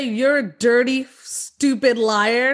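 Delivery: lightly voiced mean-girl jab; Janis Ian. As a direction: sneer it like a movie mean girl. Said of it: "like Janice Ian?".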